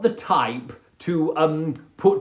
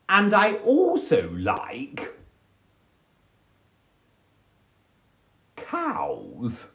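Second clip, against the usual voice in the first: whispered confession; much slower than usual. Acted. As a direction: whisper it like a secret. Confiding love of cows.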